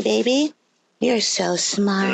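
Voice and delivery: slow mocking praise; sarcastic. Real, not acted. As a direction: drip with sarcasm, drawn out.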